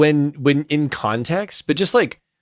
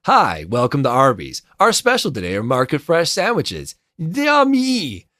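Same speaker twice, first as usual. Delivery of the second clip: drive-through recording. Retold or imitated. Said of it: "be like".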